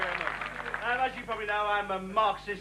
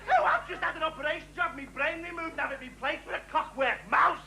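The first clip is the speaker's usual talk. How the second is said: higher, droning bore voice; mock bore; 5 semitones higher than usual. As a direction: play the pompous idiot next door. Impersonating bores.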